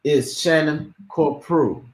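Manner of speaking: slow, drawn-out introduction of the name; deliberate name announcement. Shown as a demonstration. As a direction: say the name slowly, giving each part its due. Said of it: "You gotta say it like that".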